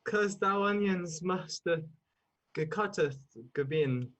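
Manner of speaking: slow mock-Bardic declaiming; ponderous pretend Shakespeare; Shakespearean. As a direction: improvise haltingly like a stage tragedian.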